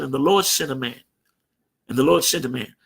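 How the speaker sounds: lightly voiced bishop telling it like scripture; a hint of solemn Bible narration, falling on "Lord"; narrating the Bible. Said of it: "like he was narrating the Bible".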